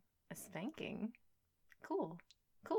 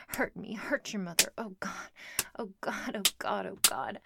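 building louder, moaning pleas; rising loud pleading; 8 dB louder than usual. Acted. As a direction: build louder with each plea. Building moans in roleplay.

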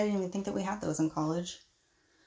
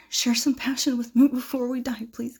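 seductive whisper; 4 semitones higher, 6 dB louder than usual. Acted. Seducing the professor.

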